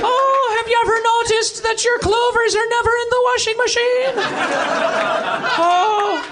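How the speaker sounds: observational stand-up delivery in mock Irish; Jerry Seinfeld, Irish. Comic asking the audience about clovers and rainbows, Irish accent. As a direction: riff quizzically, putting on an Irish accent. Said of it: "Irish Jerry Seinfeld".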